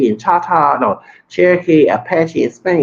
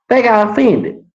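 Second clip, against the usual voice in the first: "They got offended" pitched higher in disbelief; mocking disbelief at "They got offended"; incredulous repeat; 6 semitones higher than usual. Real, not acted.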